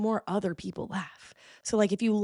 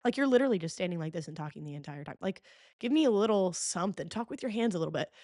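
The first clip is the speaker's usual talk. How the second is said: exasperated; 4 dB quieter than usual. Retold or imitated. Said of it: "I'm like".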